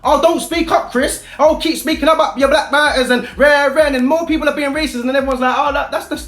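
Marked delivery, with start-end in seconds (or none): 0.0-3.9 higher, sneering mock voice; mocking imitation. Mocking people who dismiss him. 5.6-6.2 higher, dismissive mock voice; mocking imitation. Mocking people who dismiss racism.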